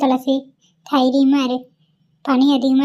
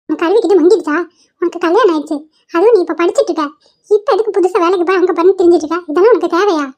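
raised, scolding voice; angry lecture; 3 semitones higher than usual. Acted. Grandmother lectures granddaughter on working, angry. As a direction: tell her off for her foolish idea. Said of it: "ஏன் பாட்டி இவ்ளோ கோவப்படுறீங்க?".

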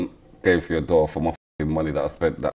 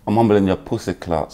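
put-on playful Jamaican accent; Jamaican mode. Putting down his date in a playful Jamaican accent. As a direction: slip into a Jamaican patois jab. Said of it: "I went into Jamaican mode".

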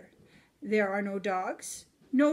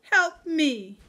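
put-on Baby Mouse pleading; 6 semitones higher, 6 dB louder than usual. A narrator's reading. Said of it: "cries Baby Mouse".

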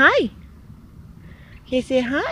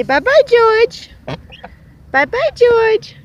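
high sing-song bye-bye; 11 semitones higher, 4 dB louder than usual. Real, not acted. Urging goose to say bye.

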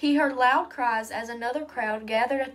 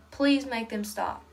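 slow, pleading prayer; praying. A narrator's reading. Boy begging God for his friend, praying slowly. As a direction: draw out the plea, understated. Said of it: "he prayed over and over".

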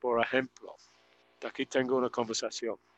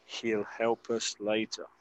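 soft repeat; 6 dB quieter, slower than usual. Shown as a demonstration. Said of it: "escuchar la pronunciación".

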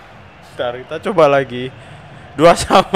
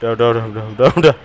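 laughing through pain; faster than usual. Real, not acted. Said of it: "Aduh, perut saya sakit".

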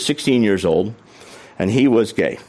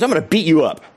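higher-pitched mock threat; retold threat; 6 semitones higher, faster than usual. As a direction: imitate a man threatening a fight. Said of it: "he looks at me and he goes".

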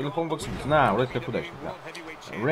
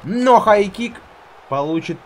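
much higher, louder hype; excited call; 8 semitones higher, 8 dB louder, slower than usual. Acted. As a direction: shout the move excitedly. Calls move.

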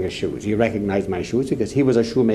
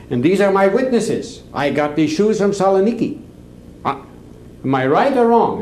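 higher-pitched, insistent appeal to witnesses; mildly indignant, pitched up; retold indignant appeal; 7 semitones higher than usual. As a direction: imitate a man rallying his backers. Accused man appeals to his witnesses.

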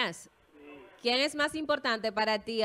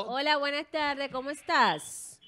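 slow, slipped-in Colombian accent greeting a caller; a slow, sing-song Colombian-accent hello; 3 semitones higher, much slower than usual. Real, not acted. Radio host greets a caller in a Colombian accent. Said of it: "Me salió el acento colombiano".

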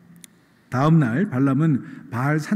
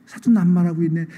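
mocking retort; 3 semitones higher than usual. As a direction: throw his words back with a sneer. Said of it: "그 꼴이 너무 우스운 거예요".

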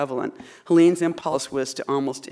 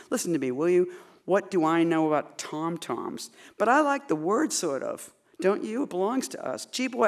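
performed poem in dialect; poem read aloud in the poet's vernacular. Acted. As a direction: read it with the speaker's delight.

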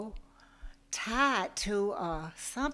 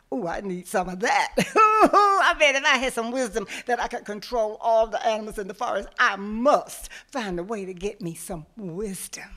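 gleeful scheming; 7 dB louder than usual. Acted. Tiger's greedy inner scheming.

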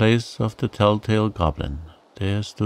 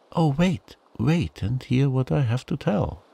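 calling goblin; 7 semitones higher than usual. A narrator's reading. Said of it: "called the goblin".

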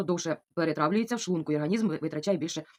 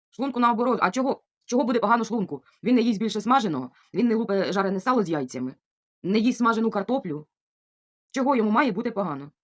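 higher, louder, fired-up rebuttal; indignant rant; 5 semitones higher, 4 dB louder than usual. Real, not acted. To doubting viewers about her stomach, heated and raised. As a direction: argue it hotly, voice up.

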